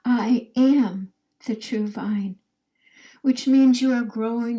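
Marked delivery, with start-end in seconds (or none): 0.0-2.4 slow, even chant for the group to echo; a teacher speaking along with the class; group recital. Shown as a demonstration. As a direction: recite it slowly with them. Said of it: "Say that over with me".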